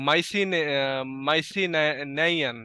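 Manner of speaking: halting, slow attempt at "মাইসিনাইয়ান"; অনিশ্চিত উচ্চারণ. Real, not acted. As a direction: stumble after "মাইসিন-", then sound out "মাইসিনাইয়ান" with an "-aiyan" ending. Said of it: "বা এরকম কিছু একটা আর কি". ("মাইসিনাইয়ান" থেমে থেমে, আন্দাজে উচ্চারণ)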